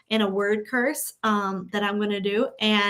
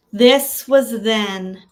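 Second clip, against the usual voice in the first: louder and firmer, "This" pushed hard; said with importance; 6 dB louder, much slower than usual. Shown as a demonstration. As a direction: declare it like you matter. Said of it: "Say it like you are important".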